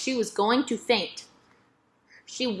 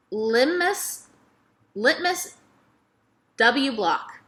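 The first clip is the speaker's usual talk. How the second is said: put-on higher, savoring old lady; 4 semitones higher, much slower than usual. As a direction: roll the name out fondly. Miss Franny savouring name.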